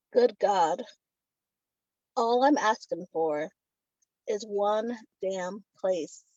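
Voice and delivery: slow, deliberate verse with long pauses; poem reading. Acted. Poet reads her title poem about driving through Texas, slow poem reading.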